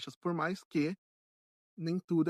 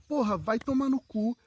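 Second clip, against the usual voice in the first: higher, louder venting curse; angry swearing; 6 semitones higher, 5 dB louder than usual. Acted. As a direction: curse it out as if letting off anger. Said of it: "Se você tá com raiva, xinga".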